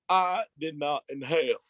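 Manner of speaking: lightly voiced Southern president; Bill Clinton. Guest showing another president he can do, lightly voiced impression. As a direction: deliver it as a deliberate presidential denial. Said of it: "Bill Clinton".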